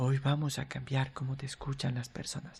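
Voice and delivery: low quiet voice. Demonstrating different ways to say the same sentence, now in a low voice. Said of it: "De manera baja".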